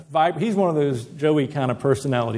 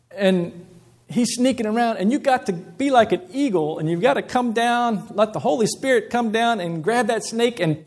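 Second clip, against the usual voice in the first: higher-pitched, lilting Ghanaian accent imitation throughout; preacher voicing his Ghanaian friend's Ghanaian accent, upbeat; imitated Ghanaian accent; 7 semitones higher than usual. Pastor quoting coworker George in hallway, Ghanaian accent imitation. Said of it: "he's got that delightful Jamaican accent".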